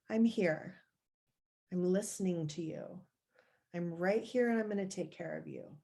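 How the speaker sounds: put-on calm a scared child gently; reassuring adult. Inner adult comforting the anxious self, softly reassuring. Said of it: "It's like the adult showing up and saying".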